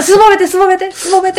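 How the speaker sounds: high laughing voice. Real, not acted. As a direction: giggle out the words. Teasing through laughter.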